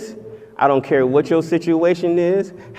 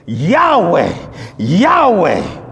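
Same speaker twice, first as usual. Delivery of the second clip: booming proclamation; much slower than usual. Acted. God proclaiming his own name.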